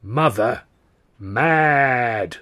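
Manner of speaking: loud, drawn-out outcry of a fortune teller; sudden cry in a crone's voice. A narrator's reading. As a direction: cry it out, stretching each word. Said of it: "she suddenly cries out".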